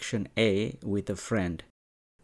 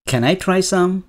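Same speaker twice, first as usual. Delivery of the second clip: put-on eager child; 8 semitones higher, 6 dB louder, much slower than usual. Child asking to taste.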